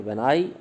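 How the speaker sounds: light "when", leaning on "I"; stress on I. Shown as a demonstration. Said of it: "आई पर है".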